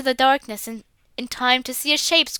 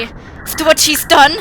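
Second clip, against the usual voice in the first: indignant outburst; 3 semitones higher, 7 dB louder than usual. Acted.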